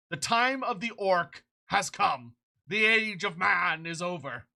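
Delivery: slow, grand battle cry ending in a shout; mock heroic war declaration, shouted at the end; epic proclamation. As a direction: proclaim the orcs' coming like a warlord. Mock epic proclamation about orcs.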